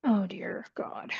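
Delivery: slow unvoiced whisper of dismay. Real, not acted. Coder whispering to himself as his code breaks, slow whisper. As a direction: breathe it out in disbelief.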